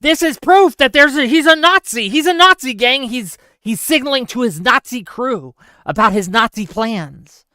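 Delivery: high, loud mocking whine; sneering parody of online critics. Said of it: "have decided to say".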